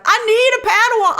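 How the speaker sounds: lightly voiced pleading Sith; mock whiny Kamira. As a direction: whine it like a spoiled kid. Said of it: "Kamira's like".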